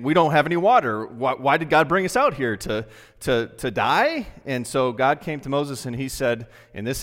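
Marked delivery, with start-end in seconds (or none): 0.0-4.3 whiny, louder complaint in the desert; complaining Israelites. Retold or imitated. People grumbling to Moses about no water. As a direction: moan it like thirsty people. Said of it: "they were complaining and saying".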